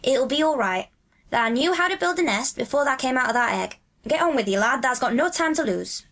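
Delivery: lilting, neighbourly counsel; friendly advice. A narrator's reading. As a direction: advise a small friend kindly. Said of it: "Dickon's tone was one of friendly advice".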